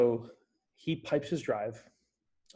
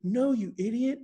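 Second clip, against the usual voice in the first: high, louder call, "Again" flung out; exasperated shout; 10 semitones higher, 4 dB louder, slower than usual. Retold or imitated. Friend shouting from the rough, high exasperated yell. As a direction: yell it at your dim friend. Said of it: "He goes".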